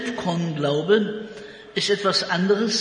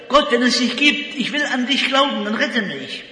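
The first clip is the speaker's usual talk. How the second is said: wiederholter Angstruf; 5 semitones higher, 3 dB louder than usual. Acted. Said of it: "Und er ruft das immer wieder".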